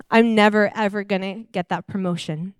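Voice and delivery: mopey, sighing lament; lightly acted sad monologue; dejected skit. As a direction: act out feeling rejected, sighing. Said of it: "a little quick visual skit".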